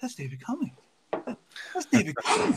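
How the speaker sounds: put-on mellow reaction tone. Retelling how another speaker reacted on hearing the news: imitating a mellow reaction. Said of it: "He just kinda had that mellow".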